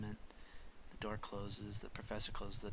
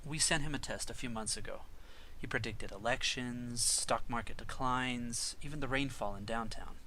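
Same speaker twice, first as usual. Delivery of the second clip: proper professor; 6 dB louder than usual. Acted. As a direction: lay out the proof deliberately. Professor voice in the pitch.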